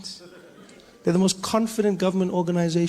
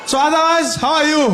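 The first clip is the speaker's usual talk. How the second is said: casual guard; 8 semitones higher, 6 dB louder than usual. Retold or imitated.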